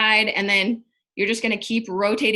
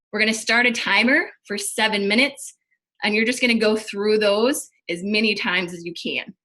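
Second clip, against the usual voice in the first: out of breath. Real, not acted. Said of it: "sorry, I'm out of breath".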